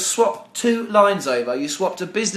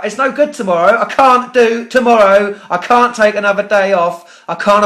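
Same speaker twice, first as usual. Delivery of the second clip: angry refusal; 2 semitones higher, 5 dB louder than usual. Real, not acted. Angry customer refuses new slot.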